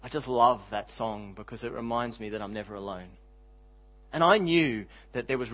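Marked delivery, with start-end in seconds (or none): 0.0-3.1 lower, softer quote of a grieving husband; understated, weighty tenderness in a retold line; tearful sincerity, retold. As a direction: gently voice his heartfelt remark. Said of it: "with tears in his eyes and he said".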